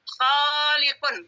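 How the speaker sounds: khaliqun drawn out very slowly, kha-li-qun; slow model word. Shown as a demonstration. Teacher introducing a new word to students slowly. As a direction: spell it out slowly by sound. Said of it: "Pernah belajar khaliqun?".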